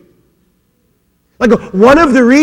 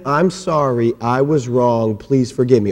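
group apology; 10 semitones lower, 7 dB quieter than usual. Shown as a demonstration. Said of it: "can we try that all together?".

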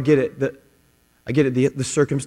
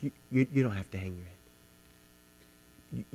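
soft, much quieter comforting voice; tender reassurance; 4 dB quieter than usual. Retold or imitated. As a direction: speak as a loving father to his child. God speaks tenderly to the listener.

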